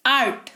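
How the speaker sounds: आर्ट with a long open आ; pronunciation demo. Shown as a demonstration. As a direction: model आर्ट with a stretched आ. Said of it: "आर्ट सुनाई दे रहा है, आ सुनाई दे रहा है". (आर्ट में लंबा आ)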